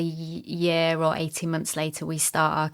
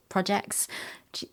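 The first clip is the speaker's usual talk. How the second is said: whispered; 7 dB quieter than usual. Real, not acted. Trailing off.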